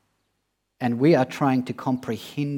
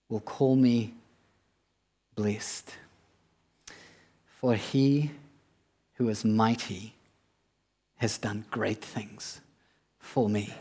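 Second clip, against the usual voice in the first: reverent scripture reading; 2 semitones lower than usual. Acted. Reads Mary's words of scripture.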